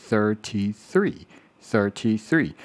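thirty-three said slowly and carefully. Shown as a demonstration. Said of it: "比较困难的". (慢慢念thirty-three)

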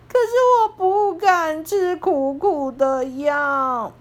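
slow, tearful little plea; crying. Acted. Piglet afraid of bitter medicine, mild tearful whine. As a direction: whimper it out, a bit teary. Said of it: "噗噗哭着说".

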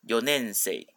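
四年生 in Japanese as "yo-nensei", no n after yo; no nasal after yo. Shown as a demonstration. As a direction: say 四年生 as yo-nen-sei, not yon-nen-sei. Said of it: "他没有那个鼻音".

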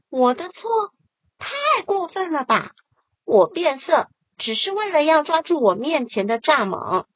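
拔高嗓门，怒气冲冲; 气得跳脚地反驳; 火冒三丈. Acted. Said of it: "火冒三丈地说". (火冒三丈地嚷)

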